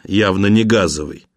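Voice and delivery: plain reading voice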